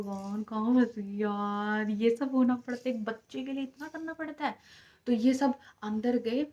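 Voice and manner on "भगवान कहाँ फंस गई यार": scared plea. Retold or imitated. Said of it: "मैं कह रही हूँ".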